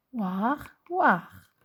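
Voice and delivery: teacher isolating "war" to show the rhyme; isolated rhyme sound. Shown as a demonstration. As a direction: punch the second "war". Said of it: "on entend le même son".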